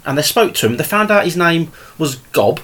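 ordinary delivery

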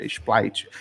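"Splite" with an L in place of the R, mom correcting; mom's Splite. Retold or imitated. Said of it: "isso aí tá errado". (mãe corrigindo: "Splite")

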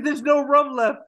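a hungover pirate waking up confused; groggy Jack. Retold or imitated. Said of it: "He's like".

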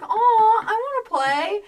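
high, loud gushing "aw"; excited squeal. Retold or imitated. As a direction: coo over something adorable. Retold excited cute reaction.

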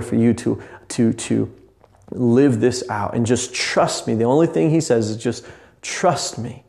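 preaching. Acted. Pastor preaching to podcast listeners about trusting Jesus, fervent. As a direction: preach it like a pastor building to the point.

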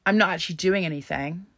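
a light mock of a careless shrugging voice; imitating a dismissive person. Mocking people online who excuse violent language, lightly voiced. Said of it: "some people would think".

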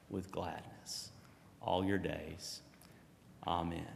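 slow, measured benediction; solemn closing blessing. Acted. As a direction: bless them slowly and solemnly. Pastor gives the benediction.

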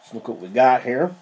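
talking while chewing peanuts; crunching peanuts. Real, not acted. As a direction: mouth full of peanuts, crunching. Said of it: "crunching on some peanuts here".

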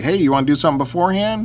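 quick chatty quote of himself; hurried recap of planning with a friend; quick retold self. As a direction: rattle it off fast, lightly acted. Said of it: "I'm like".

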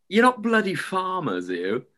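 high, suspicious question, lightly acted; a hint of an imitated Scouser; Scouse caller. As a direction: imitate a wary caller, dropping at the end. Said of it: "This Scouser going".

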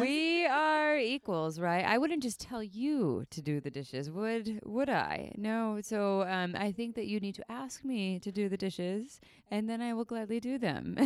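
slow, reasonable bargaining tone; teen negotiator. Retold or imitated. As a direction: talk your parents round calmly. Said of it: "I didn't do it in that accent".

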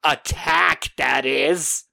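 a hint of a gleeful crypt host delivering a pun; Crypt Keeper. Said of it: "he says just the dumbest pun".

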